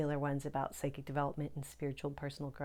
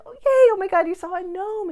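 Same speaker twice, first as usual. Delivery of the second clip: very high, very loud delighted shriek; ecstatic squeal; 16 dB louder, faster than usual. Retold or imitated. Squealing at a client who saw a gnome. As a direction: shriek with pure glee. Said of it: "So I was like".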